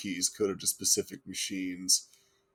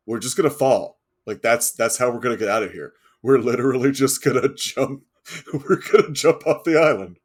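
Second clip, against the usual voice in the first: excited; 4 semitones higher, 8 dB louder than usual. Real, not acted. Excited about jumping off island.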